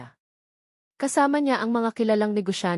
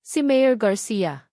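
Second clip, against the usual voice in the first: slow menacing mayor; 4 dB louder, much slower than usual. Acted. Villain's slow menacing phone call.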